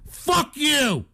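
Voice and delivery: high, sharp retort; angry yell. Real, not acted. Streamer answering gloating chat trolls, angry yell. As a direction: throw it straight back at them. Snaps back after mimicking chat.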